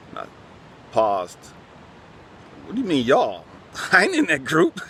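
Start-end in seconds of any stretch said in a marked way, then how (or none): 2.6-4.8 laughing protest. Retold or imitated. Indignant quote, laughing through.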